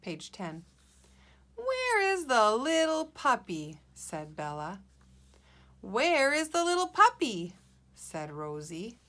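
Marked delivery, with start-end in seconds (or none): 1.5-3.8 higher, louder, exasperated asking; frustrated question. Acted. Bella asks after looking a long time, frustrated. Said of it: "sound a little frustrated and tired". 5.8-7.5 high, loud, exasperated question; frustrated question. Acted. Rosie asks after looking a long time, frustrated. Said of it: "sound a little frustrated and tired".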